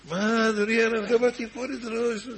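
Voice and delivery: startled protest. Acted. Young guest protests to rabbi.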